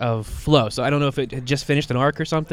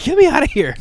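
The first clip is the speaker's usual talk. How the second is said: high, louder hammed-up plea; playful fake terror, much higher and louder; mock panic; 13 semitones higher, 5 dB louder than usual. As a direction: shriek it while jumping into a friend's arms. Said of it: "she jumps on the Ivy".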